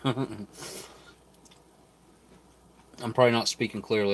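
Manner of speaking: words round a bite of food; mouth full. Real, not acted. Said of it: "talking with my mouth full".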